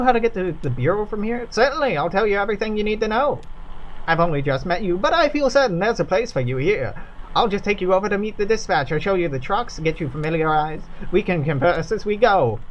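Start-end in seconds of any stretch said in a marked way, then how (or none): 1.5-12.6 put-on a patient, smiling drawl off an old tape; patient crackly drawl. Stranger's tape greeting the newcomers, patient smiling drawl. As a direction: sound like you're smiling through a slow drawl. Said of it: "It is patient and sounds like it should be smiling".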